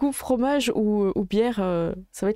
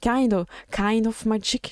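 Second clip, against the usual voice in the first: English accent try; slower than usual. Shown as a demonstration. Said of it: "j'essaie un peu de travailler mon accent anglais".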